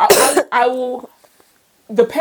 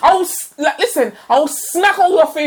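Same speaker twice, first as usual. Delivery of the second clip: laughing mock threats; 4 semitones higher than usual. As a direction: ham up the petty revenge. Playful threats about the food.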